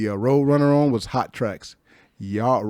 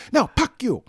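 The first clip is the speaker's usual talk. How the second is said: mock furious curse; 12 semitones higher than usual. Girl repeats curse, louder.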